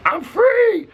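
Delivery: the runaway dog shouting its freedom in a high squeal; gleeful dog. Retold or imitated. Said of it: "the dog was like".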